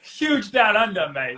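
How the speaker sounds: a hint of a jokey, half-hearted Australian accent; bad Australian accent. Host jokes about Australian listeners in a weak Australian accent. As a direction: toss it off in a mock Australian accent.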